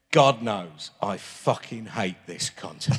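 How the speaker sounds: slow, reading a tweet through laughter; can barely get the words out for laughing; real laughter over a rude tweet; laughing while reading. Real, not acted. Reads tweet, breaks into laughter.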